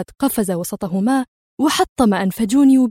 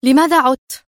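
louder, sharp demand; angry; 4 semitones higher, 6 dB louder than usual. Acted. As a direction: confront him, furious. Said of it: "وهي تقول في غضب".

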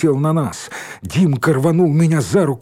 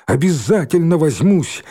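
raised, emphatic warning; mock-stern threat; scolding threat; 5 semitones higher, 4 dB louder than usual. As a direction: promise trouble, pitched up. Scolding threat voiced in a story.

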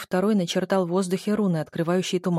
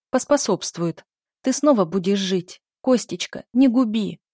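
desperate pleading; 3 semitones higher, 5 dB louder than usual. Acted. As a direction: bargain for her life in a panic. Countess begs her dead husband. (графиня в панике умоляет мужа)

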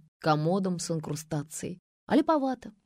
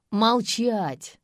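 loud, higher sharp command; barked order; 4 semitones higher, 5 dB louder than usual. A narrator's reading. Commando silences the arrested woman, barking. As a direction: bark it to silence her. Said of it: "рявкнул наблюдавший за ней спецназовец".

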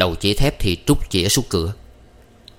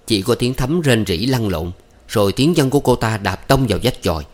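plain reading voice

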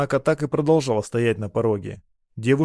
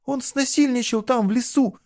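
put-on much higher, pleading girl's voice; desperate girl pleading; 12 semitones higher than usual. A narrator's reading. Girl begs her lover, desperate. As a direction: she begs him to believe her.

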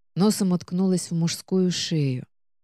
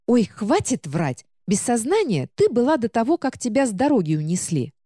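высоко, протяжно и капризно; ноет, растягивая слова; книга-ворчунья, высокий голос; 5 semitones higher than usual. Acted. Книга уличает героиню. (капризная говорящая книга)

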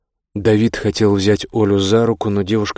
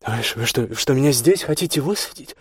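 indignant protest; 5 semitones higher than usual. A narrator's reading. Olya learns she is being dropped here, indignant. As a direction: protest in disbelief, building to a shout.

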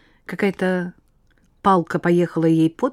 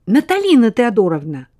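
rattling off; 5 semitones higher, 7 dB louder than usual. Acted. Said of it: "затараторила Лена".

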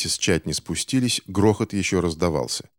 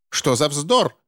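much higher indignant squeal; high-pitched scandalised retort; shrieking; 9 semitones higher, slower than usual. A narrator's reading. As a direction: shriek it in outrage. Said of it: "визжала миссис Поуп".

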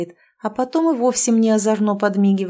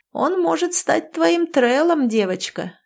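put-on old woman whispering; 8 semitones higher than usual. A narrator's reading. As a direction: lean in and murmur like a crone. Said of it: "шепчет старуха".

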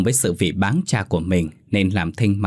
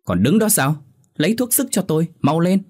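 shouting angrily; 9 semitones higher than usual. A narrator's reading. Wounded husband yells at his wife for medicine, high angry shout. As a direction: bark the order up high, glaring. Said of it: "bậm môi trợn mắt hét vang".

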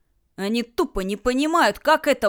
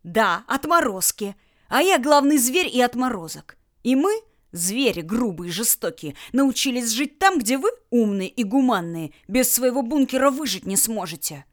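гнев; 2 semitones higher than usual. Acted. Герман взбесился, кричит на взрослых.

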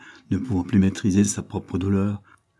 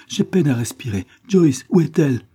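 put-on raised, urgent child's voice; mildly acted struggle for breath, rising to a louder call; near suffocating; 7 semitones higher, 5 dB louder than usual. A narrator's reading. Sick boy asks father for Joyce, near suffocating. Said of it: "comme s'il était prêt à suffoquer".

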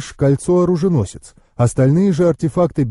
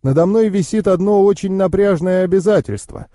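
higher-pitched uncle, friendly but firm; uncle taking his leave; 4 semitones higher than usual. Acted. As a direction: wind up the conversation as the hurried uncle.

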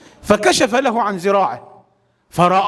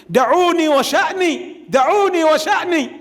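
higher, insistent plea to be left alone; pleading cry; 8 semitones higher than usual. Acted. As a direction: beg them to let him go. (رجاء حار بصوت أعلى)

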